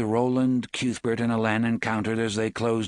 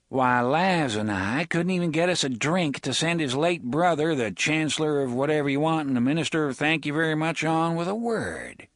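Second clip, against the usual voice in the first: lightly voiced sly gunman; lightly voiced Reynolds; 5 semitones higher than usual. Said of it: "Reynolds voiced in story".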